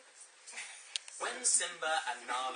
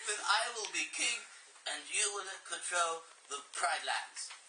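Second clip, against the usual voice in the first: Scar voice. Acted. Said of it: "What voice is Scar gonna have?".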